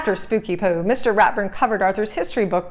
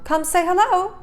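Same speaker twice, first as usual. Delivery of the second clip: calling out; 11 semitones higher than usual. A narrator's reading. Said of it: "called Mom".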